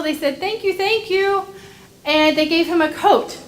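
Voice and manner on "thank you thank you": higher-pitched grateful thanks. A narrator's reading. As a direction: voice heartfelt thanks with a lifted pitch. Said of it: "they were so grateful".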